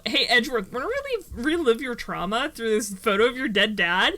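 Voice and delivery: mocking taunt. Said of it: "Ayers said this trial".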